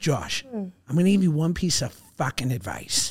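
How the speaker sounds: put-on heavy Boston accent, laid on thick. Retelling wedding advice from a big brother: imitating Dan's thick Boston accent. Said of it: "Dan has a great, thick Boston accent".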